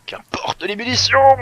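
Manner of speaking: high, very loud, drawn-out battle shout; mock heroic captain. Captain defying lack of ammunition, mock-heroic shout. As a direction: roar it like a hammed-up captain.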